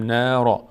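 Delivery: "را" with a full, heavy R. Shown as a demonstration. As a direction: say "را" with a rounded, heavy aa.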